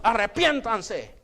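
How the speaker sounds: a hint of a slow, stern prophet thundering; slow, weighty rebuke in the power of God; lightly voiced Baptist denouncing the crowd; powerful preaching. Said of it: "les hablaba, hermano, en el poder de Dios".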